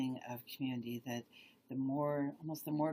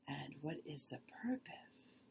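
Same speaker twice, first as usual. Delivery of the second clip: meditative questioning; slower than usual. Shown as a demonstration. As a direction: pose the question gently, pausing between phrases. Slowly rephrases question in demo.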